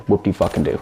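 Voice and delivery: deadpan mock cheer, unimpressed; sarcastic. Real, not acted. Reviewer scoffing at the thin party modes, dry sarcasm.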